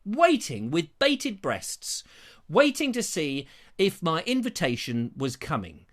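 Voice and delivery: high, slow, hammed-up pining; mock self-pity. Lamenting to viewers in mock self-pity. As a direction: sigh it out like a jilted guest. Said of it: "self-pitying lament".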